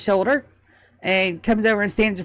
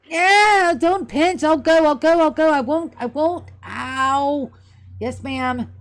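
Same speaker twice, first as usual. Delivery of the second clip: pinched Mouse; 7 semitones higher, slower than usual. Acted. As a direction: yelp and give in, ear held tight. Mouse dragged by the ear.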